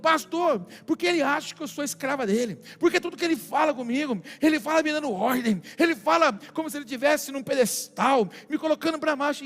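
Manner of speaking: mildly indignant wife complaining to her pastor; indignation, lightly mimicked; retold angry wife. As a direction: act out an exasperated wife's grievance. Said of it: "tá brava desse jeito com ele".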